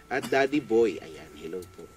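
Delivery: ordinary talk, nothing marked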